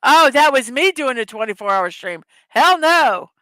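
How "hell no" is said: loud, high hell no; emphatic refusal. Real, not acted. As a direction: blurt out a firm refusal. Refusing 24 hour stream.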